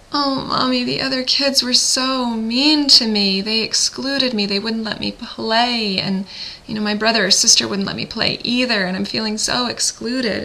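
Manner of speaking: a hint of a child complaining to mommy; upset child. Child tells mommy the other kids excluded her, mildly hurt. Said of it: "And she says to you".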